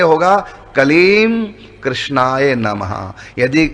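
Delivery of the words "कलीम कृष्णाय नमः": कलीम कृष्णाय नमः said slowly, each word apart, lips closed on the m; slow careful कलीम then कृष्णाय नमः; separated, slow. Shown as a demonstration. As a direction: pronounce कलीम fully with the closing m before कृष्णाय. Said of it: "अलग अलग बोलेंगे".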